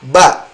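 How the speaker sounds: fa said as a voiced ba; mock mistaken ba; wrong ba for fa. Shown as a demonstration. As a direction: swap fa for ba. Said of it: "huruf fa dibaca apa".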